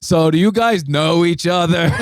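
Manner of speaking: an awkward comic finally breaks three minutes of silence; deadpan Dave. Retold or imitated. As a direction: blurt it out to break a long silence. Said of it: "He just goes".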